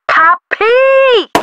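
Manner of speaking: very high, held squeal of a name; theatrical high-pitched announcement; high-pitched name flourish. Acted. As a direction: sing it out high, then drop. Calls out own name as flourish.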